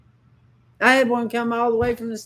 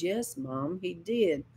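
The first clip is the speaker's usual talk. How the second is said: reluctant admission; 7 dB quieter, slower than usual. Retold or imitated. Retold hurt son admits it.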